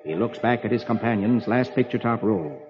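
low, measured storybook telling; dramatic story narration. A narrator's reading. Host reading Prince Valiant to a child, dramatic narration. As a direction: narrate an epic with solemn grandeur.

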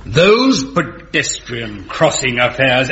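slow, deliberate repeat of her own words; a judge's dry, slow rebuke; pointed echo. Acted. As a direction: hand her phrase back to her, pointedly.

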